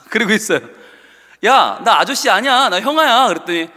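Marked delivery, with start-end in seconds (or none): 1.5-3.3 louder, insisting he is no uncle; indignant protest. Retold or imitated. Teacher insisting to the first-grader, mildly indignant. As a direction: push back at the kid, a touch louder.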